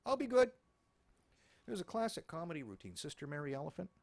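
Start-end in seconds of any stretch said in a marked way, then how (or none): 0.1-0.5 mock meek promise. Robber voiced sheepish.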